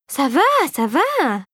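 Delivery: slow, weary sigh of a reply. A narrator's reading. The fairy sighing back at Philippe, slow and weary. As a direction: drag it out, fed up. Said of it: "souffla la fée rosée".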